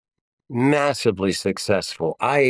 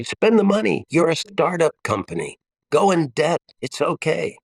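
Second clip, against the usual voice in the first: high, emphatic mock pep talk; playful urging; 7 semitones higher than usual. Father urging frugal daughters, high and emphatic. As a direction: cheer them on, higher. Father quoting advice again.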